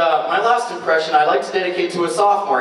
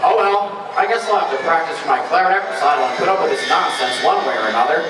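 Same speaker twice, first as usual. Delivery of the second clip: Squidward voice. Acted. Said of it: "Squidward tentacles".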